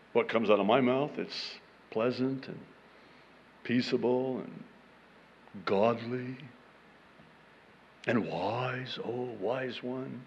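soft, low, self-satisfied musing; mock piety. Reader praising his own mouth, soft smug piety. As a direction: list your virtues gently, pausing to admire each.

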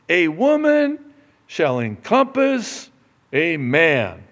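loud, high proclaimed scripture, building; scripture reading. Acted. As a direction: read the prophet's call with rising force. Reads scripture aloud, building.

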